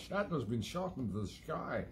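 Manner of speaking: giggling repeat of the joke; laughing through the line. Real, not acted. Repeating his own Connery pun, laughing. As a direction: laugh while saying it. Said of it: "laughing repeat".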